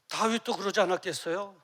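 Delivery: ordinary delivery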